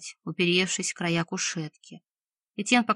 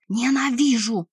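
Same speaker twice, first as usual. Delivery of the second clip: slow, louder, higher Ненавижу; furious shout; 4 semitones higher, 4 dB louder than usual. A narrator's reading. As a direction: scream Ненавижу slowly with a fall. Witch attacks the healer.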